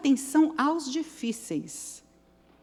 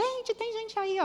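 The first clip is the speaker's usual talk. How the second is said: retold calling for help; 12 semitones higher, 4 dB quieter than usual. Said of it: "comecei a gritar".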